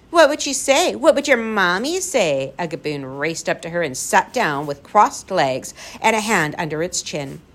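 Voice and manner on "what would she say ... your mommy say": higher, teasing questions; mock-curious creature. A narrator's reading. Gaboon racing up to Lindy, teasingly curious. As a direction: needle her with mock interest.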